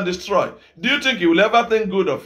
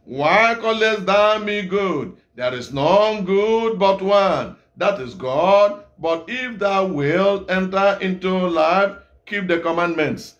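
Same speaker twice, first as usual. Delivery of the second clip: slow, weighty Bible reading; solemn scripture reading; 2 semitones lower, slower than usual. Acted. Preacher reads Jesus' words to congregation, slow and solemn. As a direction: read each word slowly like holy writ.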